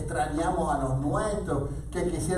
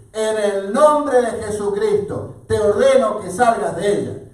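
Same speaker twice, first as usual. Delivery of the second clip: loud, raised-pitch command; stern rebuke; 5 semitones higher, 9 dB louder than usual. A narrator's reading. Paul commanding a spirit to leave, stern rebuke. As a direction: rebuke it with firm authority. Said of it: "se volvió y reprendió al espíritu".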